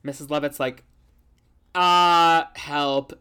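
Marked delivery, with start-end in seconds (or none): 1.7-3.1 mock scream. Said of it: "I'm screaming".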